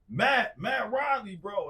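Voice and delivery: high, loud imitation of frantic shouting; retold yelling. Friend telling who is calling, yelling high. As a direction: yell the name as if desperate to be recognised. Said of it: "he's yelling and screaming".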